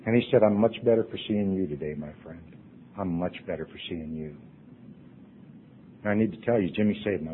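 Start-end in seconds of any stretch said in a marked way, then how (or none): 0.4-2.4 gentle reply. Retold or imitated. Quoting Jimmy's kind reply. 3.0-4.4 soft repeat. Retold or imitated. Quoting Jimmy's kind reply, repeated.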